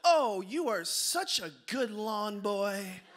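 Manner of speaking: slow, drawn-out mock praise; lightly voiced gushing mother; gushing mom. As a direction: lay on the compliment slowly, as a doting mother. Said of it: "She goes".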